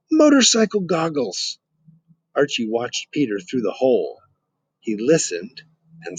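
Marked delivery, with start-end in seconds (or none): 0.1-1.6 high, proud announcement; excited. Acted. Peter showing his find through the pipe, excited. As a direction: show off the prize.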